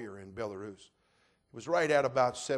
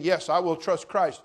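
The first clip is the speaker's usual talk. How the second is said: slow preached confession; 5 semitones higher, 10 dB louder than usual. Acted. Preached quote.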